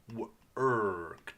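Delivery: "Worked" in pieces, W, ER, K-T; sounded out. Shown as a demonstration. Teacher sounding out a word with quiet E, piece by piece. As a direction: sound out "Worked" slowly with silent E. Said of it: "There's another quiet E".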